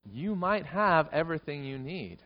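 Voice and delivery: usual speaking voice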